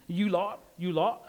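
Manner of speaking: half-hearted British accent, rounded vowel in "lot"; attempted British accent. Shown as a demonstration. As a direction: have an unsure go at sounding British. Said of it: "I don't have a British accent".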